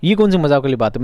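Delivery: rising, amazed; surprised exclamation. Shown as a demonstration. Clerk showing the exclamation mark, surprised. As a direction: say it as if astonished. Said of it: "मजाक यानी हैरत में".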